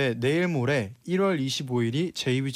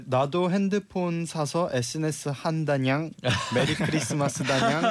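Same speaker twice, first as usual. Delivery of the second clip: cutesy nya speak. Retold or imitated. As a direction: read it like a cat being cute, ending lines with nya. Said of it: "귀엽게". (살짝 귀여운 고양이 말투)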